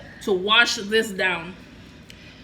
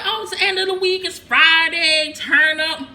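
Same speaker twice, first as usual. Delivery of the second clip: party hype voice; 4 semitones higher, 4 dB louder than usual. Retold or imitated. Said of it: "Usually people like".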